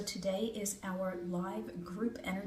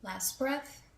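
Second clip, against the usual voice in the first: measured breath-by-breath guidance; guided breathing meditation; 4 semitones higher, 4 dB louder than usual. Acted. Healer guiding a group through three breaths, guided meditation.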